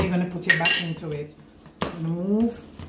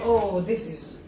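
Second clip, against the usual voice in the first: imitating delight; 4 semitones higher, slower than usual. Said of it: "You're gonna say".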